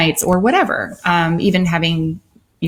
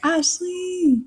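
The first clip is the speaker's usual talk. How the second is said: high, soft, drawn-out hello; singsong greeting; 12 semitones higher, 5 dB quieter than usual. Real, not acted. Co-host greeting Ashley as she joins, singsong greeting. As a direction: sing out the name softly and high. Greeting a viewer who just joined.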